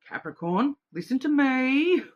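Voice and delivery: a lightly voiced cosmic voice calling out; voice of the universe. Universe calling to Capricorn, mock commanding.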